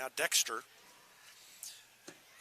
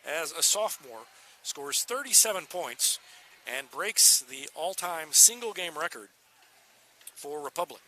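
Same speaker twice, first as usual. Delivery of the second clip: emphatic sportscaster proclaiming a record; excited announcement; 3 semitones higher, 4 dB louder than usual. Real, not acted. Announcer telling listeners of a new school record, excited. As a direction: punch out the big news.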